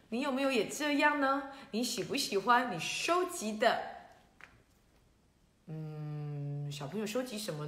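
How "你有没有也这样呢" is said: ordinary delivery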